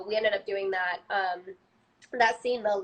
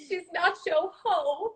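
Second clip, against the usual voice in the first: quoted line; 10 semitones higher, slower than usual. Retold or imitated. Quoting the episode, laughing.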